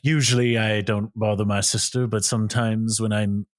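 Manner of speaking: mock British accent, slowing down; light, slow British impression; British paraphrase. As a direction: loosely imitate an eloquent British man, slowly. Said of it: "in such an eloquent British way".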